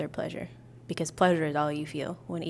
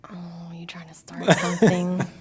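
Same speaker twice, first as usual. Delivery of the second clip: whisper. Real, not acted. Teasing whisper to partner.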